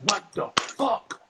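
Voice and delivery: drawn-out, high "what the fuck"; stunned disbelief. Retold or imitated. Comic hears he got the Curb job, slow high disbelief. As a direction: let the surprise stretch every word slowly.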